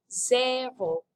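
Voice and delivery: French-accented demonstration word. Shown as a demonstration. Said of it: "except with a French accent".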